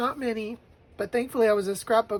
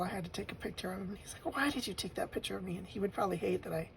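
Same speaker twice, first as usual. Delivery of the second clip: tearful; 10 dB quieter, faster than usual. Real, not acted. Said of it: "the blubbering".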